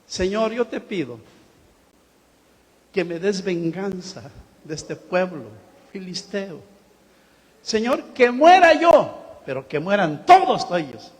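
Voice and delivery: pide venganza, primero bajo y luego clama más fuerte; oración de Sansón. Retold or imitated. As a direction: ruega a Dios con creciente furia. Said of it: "Y él oró". (Sansón ciego clama a Dios por venganza)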